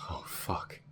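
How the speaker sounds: hushed, sinking curse; stunned dismay. Acted. Crew member realizing what was unleashed, hushed dismay. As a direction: let it out softly as the horror lands. Danger sinks in.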